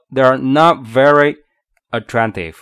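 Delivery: "not" strong, "They're" light; stress on not and attractive. Shown as a demonstration. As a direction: punch "not", then stress "attractive" after a pause. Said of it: "这个否定的是要重读的".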